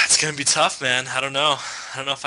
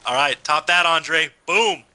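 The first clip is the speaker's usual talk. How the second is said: lightly put-on hillbilly player introduction; redneck hillbilly; slower than usual. Announcer introducing two players, lightly voiced redneck hillbilly. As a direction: introduce the players with a hint of redneck, drawing out the names. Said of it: "like, a redneck hillbilly impression?".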